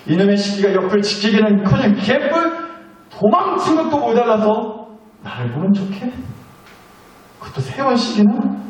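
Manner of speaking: rising hammed-up indignation; mock outrage. Preacher voicing a betrayed Jesus, mock outrage. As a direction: vent like a betrayed friend, half joking. Imagined angry Jesus venting.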